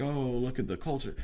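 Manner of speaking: high-pitched mock awe; mocking admiration. Mocking people who admire New Orleans.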